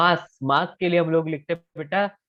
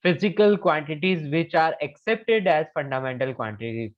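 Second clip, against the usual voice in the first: slow dictation; 3 dB louder, much slower than usual. Shown as a demonstration. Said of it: "तो directly लिख लो".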